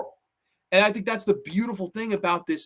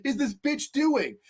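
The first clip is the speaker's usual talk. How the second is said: slow, higher, incredulous; baffled guy; 6 semitones higher than usual. Retold or imitated. Rev confused by Angela's tape, slow and incredulous. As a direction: drag it out in disbelief, pitched up. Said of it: "he's like".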